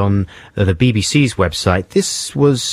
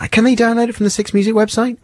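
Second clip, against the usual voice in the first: high questioning voice; 12 semitones higher, faster than usual. Real, not acted. Doubtful aside to co-host.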